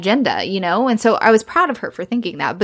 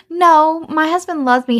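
higher and louder, insisting; retold wife protesting, pitched up and louder; indignant protest; 8 semitones higher, 4 dB louder than usual. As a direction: fire back in hurt disbelief. Charlotte protests the mother's claim.

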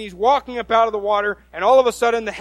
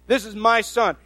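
tag; 2 semitones higher, 4 dB louder than usual. Acted. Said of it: "And God said".

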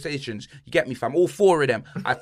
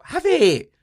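high, loud "Have it" shout; 13 semitones higher, 6 dB louder than usual. Real, not acted. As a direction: yell it out, handing the spot away. Giving away the Champions League spot.

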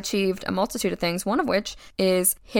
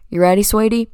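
louder Southern Kentucky dad impression; imitated Southern dad, a bit louder; dad's Southern accent; 2 semitones higher, 6 dB louder than usual. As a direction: do dad's Kentucky twang, lightly. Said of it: "this is how he actually talks".

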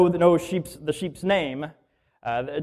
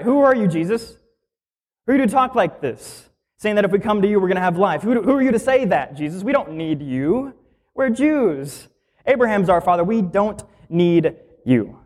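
higher, mocking Pharisee challenging Jesus; indignant Pharisees; 3 semitones higher than usual. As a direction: demand to know who he thinks he is. Pastor voices Pharisees challenging Jesus.

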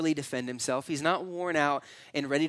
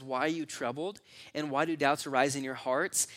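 gentle. Retold or imitated. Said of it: "there's this gentleness about it".

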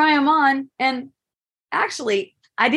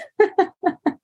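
high far-off giggle; 9 semitones higher than usual. Real, not acted. Laughing after dropping the flower.

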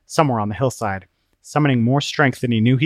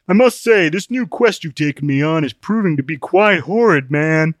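higher, louder put-on voice, aggrieved; Open-Minded, complaining; 5 semitones higher, 5 dB louder than usual. Open-Minded grumbling about the new quest, complaining. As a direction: protest in a raised character voice.

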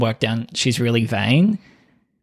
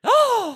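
excited gasp. Real, not acted. Sudden casting idea.

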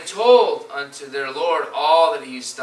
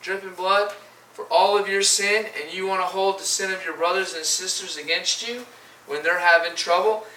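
indignant God; 2 semitones higher than usual. Acted. Preacher voicing God scolding the unforgiving believer, indignant. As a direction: let the outrage rise on how dare you. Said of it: "And he's like".

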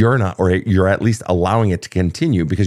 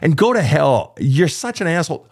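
higher, raw outburst of hurt and anger; venting letter; 5 semitones higher than usual. Shown as a demonstration. Host acts out a letter to an ex, raw angry venting. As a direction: pour it out like an angry breakup letter. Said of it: "Get out your fucking feelings".

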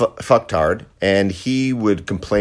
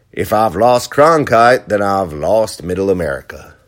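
Lyndon Johnson; 3 dB louder than usual. Retold or imitated. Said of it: "my Lyndon Johnson imitation".

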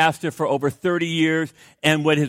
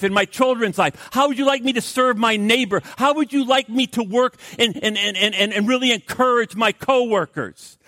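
eager prayer; 5 semitones higher than usual. Acted. Voicing his morning prayer.

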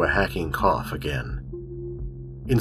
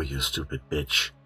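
softer, lower contemptuous aside; cold sneer; 4 semitones lower, 6 dB quieter than usual. A narrator's reading. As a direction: drop the voice into contempt. Villain sneers at her.

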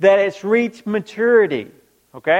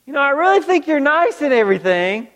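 mock gentle letdown; 4 semitones higher, faster than usual. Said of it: "that girl that you really like".

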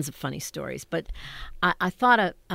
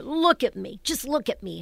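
put-on higher-pitched girl admiring herself; teenage girl; 7 semitones higher than usual. Girl going to a dance, at the mirror, acted high. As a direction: play a girl pleading to be looked at. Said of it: "I would be a sixteen-year-old girl".

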